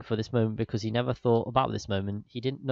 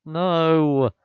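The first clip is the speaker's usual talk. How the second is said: shout; 5 semitones higher, 9 dB louder than usual. Real, not acted. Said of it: "reacting to the text".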